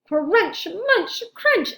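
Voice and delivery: loud, rising crunch munch crunch; crunching sounds. Acted. Narrator acts shark chewing junk, loud and rising. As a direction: chomp the words out with gusto.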